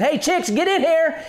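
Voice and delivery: lightly voiced mother hen urging her chicks inside; mother hen calling. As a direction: call the chicks in as a mama hen. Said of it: "to her, she's saying".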